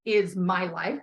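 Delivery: slow, firm and defiant; firm declaration. Shown as a demonstration. Coach showing the client how to declare to guides, firm and slow. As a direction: declare it to your guides like a vow. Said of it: "You need to make it as a declaration and say".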